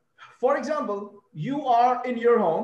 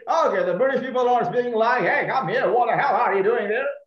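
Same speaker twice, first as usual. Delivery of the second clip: mock British accent; 6 dB louder, much faster than usual. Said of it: "you can say".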